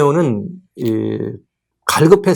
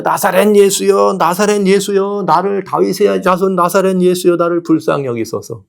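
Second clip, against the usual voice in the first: crying out; 5 semitones higher than usual. Acted. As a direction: call out to Jesus with desperate longing. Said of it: "그리고 소리 질렀습니다".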